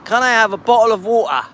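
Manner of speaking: British accent. Shown as a demonstration. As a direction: show off how a Brit asks for it. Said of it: "do you want it in a British accent?".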